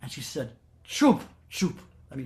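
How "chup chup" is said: stern hush. Retold or imitated. Ma silencing raging Bholenath.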